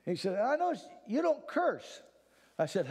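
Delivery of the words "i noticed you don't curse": hint of a curious seatmate. Seatmate on flight quoted.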